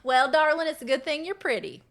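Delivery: hammed-up Southern belle put-down; Southern insult. Shown as a demonstration. Demonstrating a favorite Southern insult, put-on Southern sweetness. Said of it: "My favorite Southern insult is".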